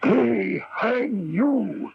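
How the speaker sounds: slow, crying delivery of the sentence; slow and tearful; tearful accusation. Acted. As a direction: let the tears come as you condemn him. Accuser confronts condemned prisoner.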